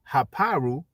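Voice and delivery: "Haparu" with a stressed open middle syllable, ha-PAH-roo; others' pronunciation. Shown as a demonstration. Host quotes how they pronounce it, "Haparu" as ha-PAH-roo. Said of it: "as they, as they pronounce it".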